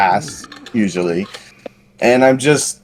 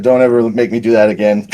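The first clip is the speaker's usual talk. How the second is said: laughing. Retold or imitated. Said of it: "and said".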